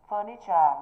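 "Furniture" with the first syllable strongest; stress on first syllable. Shown as a demonstration. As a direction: hit the FUR in "Furniture". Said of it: "Thứ nhất".

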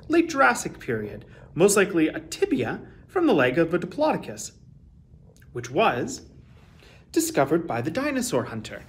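put-on lively read-aloud for children; expressive children's story reading; storybook narration. A narrator's reading. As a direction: tell it like a bedtime picture book. Reads a picture book aloud.

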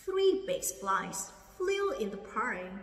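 "Three big flies flew in the pie" read slowly, word by word; slow model reading. Shown as a demonstration. Teacher modelling the sentence slowly for students. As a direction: read it slowly for learners to copy. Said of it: "Cô đọc lại ha".

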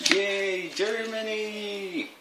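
high, slow cheer; excited cheer. Real, not acted. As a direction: cheer it out, delighted. Cheering about German chocolate.

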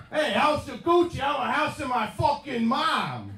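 high, hammed-up Italian accent. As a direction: proclaim it in a pumped-up Italian accent. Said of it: "a breakdown in Italian accents".

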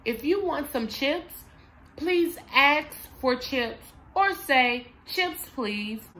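put-on gentle, patient prompt to a child; calm parent prompt. Shown as a demonstration. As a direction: coax the kid kindly to ask. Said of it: "So you would say".

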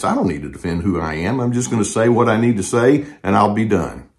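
quiet, calm and firm, no defensiveness; a calm, firm boundary; calm firmness. Shown as a demonstration. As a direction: state it evenly and let it rest. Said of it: "State what you have to say in a calm tone of voice".

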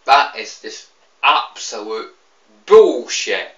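sudden loud angry outburst. Real, not acted. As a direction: spit out the swear word. Angry rant about pre-owned fee.

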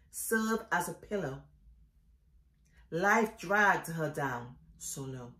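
solemn poetry reading, phrases set apart by pauses; poem recitation. Acted. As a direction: recite it line by line, each falling away at the end. Reads own poem aloud.

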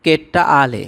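কেট্টা with a hard doubled retroflex t, long final a; Tamil phrase modelled. Shown as a demonstration. Teacher showing viewers Tamil for rude man, careful pronunciation. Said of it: "এটা হবে".

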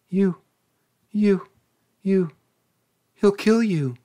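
high, stammering cry of fear; frightened exclaim. A narrator's reading. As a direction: blurt it out in panic, voice jumping up. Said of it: "she exclaimed".

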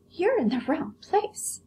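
high prissy doll voice; haughty doll, very high; vain china doll. Acted. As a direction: look down your nose at the rabbit.

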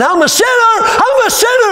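retold scream. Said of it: "He screamed out to God".

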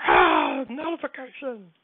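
imitated phone notification. Streamer mimicking his phone's alert, hammed-up two-pitch cry. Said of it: "it's like".

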